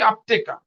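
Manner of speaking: আপতেকা carefully, as "ap-te-ka"; pronunciation demo. Shown as a demonstration. Teacher showing learners how it is pronounced, আপতেকা as "ap-te-ka". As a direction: model আপতেকা with every syllable distinct. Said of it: "এটার উচ্চারণ কি".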